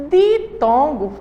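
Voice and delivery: "Ditongo" drawn out very slowly; slow teaching. Shown as a demonstration. Teacher to pupils, slowly naming the term. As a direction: say "Ditongo" slowly, like a word on the board. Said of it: "ditongo vem de duas".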